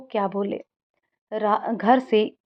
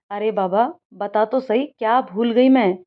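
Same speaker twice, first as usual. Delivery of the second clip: plain reading voice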